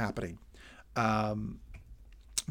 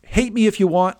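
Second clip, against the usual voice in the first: ordinary talk, nothing marked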